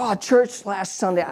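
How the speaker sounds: put-on projecting voice, no real shout; mock loud sharing. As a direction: imitate sharing for an eavesdropper to overhear. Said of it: "nice and loud".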